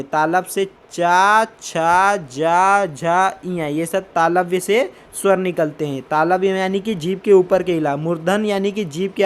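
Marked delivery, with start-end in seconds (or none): 0.0-3.7 चा छा जा झा spoken slowly and distinctly; तालु से साफ़ चा, छा, जा, झा बोलिए; palatal syllables. Shown as a demonstration. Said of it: "फिर है तालव्य". (तालव्य वर्ण धीरे-धीरे स्पष्ट बोलना)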